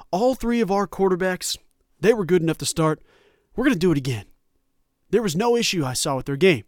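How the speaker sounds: a light Southern drawl, coach at the podium; lazy Southern drawl, hint of a down-home coach; Mike Gundy Southern drawl. Host mimics Gundy's postgame presser in a light Southern drawl. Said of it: "he has a Southern drawl whenever I do his impersonation".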